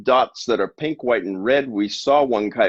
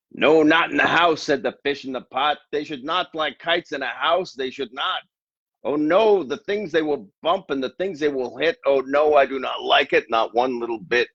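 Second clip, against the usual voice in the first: high, anxious fish voice pitched well up; nervous little fish, higher than the narrator; fretful fish; 6 semitones higher than usual. Acted. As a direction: squeak out the worried fish's protest. Fish's worried warning lines.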